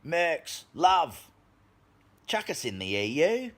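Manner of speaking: mock Soros voice. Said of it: "And he goes".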